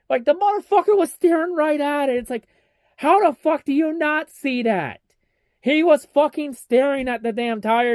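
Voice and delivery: high-pitched, exasperated ranting; outraged rant. Real, not acted. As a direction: blow up at the officials in disbelief. Ranting at NASCAR officials.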